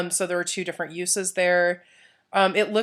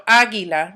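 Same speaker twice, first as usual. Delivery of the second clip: águila with a louder first A; stress on first syllable; 6 dB louder than usual. Shown as a demonstration. Teacher showing the accent mark, águila stressed on first A. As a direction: lean on the opening A of águila. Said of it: "I put the emphasis on a certain, um, vowel".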